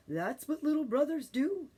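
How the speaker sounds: put-on a mother raccoon soothing her worried child; motherly tone. A narrator's reading. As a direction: speak like a gentle mother explaining. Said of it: "in a very motherly tone".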